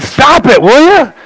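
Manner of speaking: high pitched exasperated rebuke; retold scolding. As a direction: tell him off like a fed-up landlord. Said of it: "he said".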